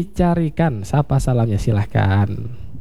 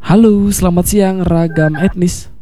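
radio announcer; 3 semitones higher than usual. Acted. Radio host takes a caller.

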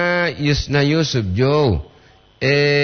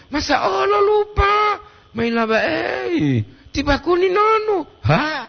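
much higher, with a shouted "Masa Allah lupa?"; mock surprise. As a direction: squeal in pretend shock that the listener forgot. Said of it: "Intonasi itu kagak?". (kaget pura-pura, nada sangat tinggi)

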